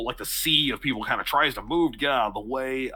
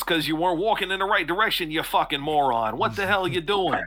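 angry townsman; 5 semitones higher than usual. Acted. GM voices hostile townsman.

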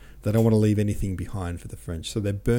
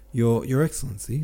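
stammering; 4 semitones higher than usual. Acted. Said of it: "stammered Alpatich".

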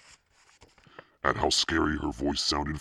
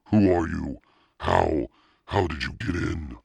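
loud, raised startled questions; terrified questioning; 4 semitones higher, 6 dB louder than usual. A narrator's reading. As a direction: blurt it out as a scared brother. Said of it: "his expression terrified".

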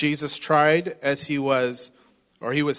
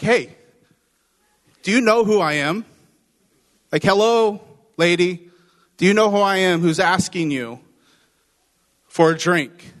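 mock cocky challenge, pitched up and loud; cocky bragging Jesus; 3 semitones higher, 5 dB louder than usual. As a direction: brag like he's showing off to her. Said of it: "I'm talking from her perspective here".

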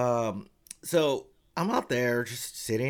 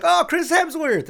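much higher, louder, slow gasp of hope; excited fan guess; 9 dB louder than usual. Retold or imitated. Audience guessing the star, excited squeal. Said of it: "And we're like".

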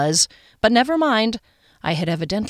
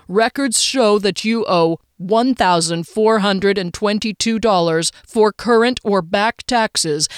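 scam robocall; 2 semitones higher, 5 dB louder than usual. Acted.

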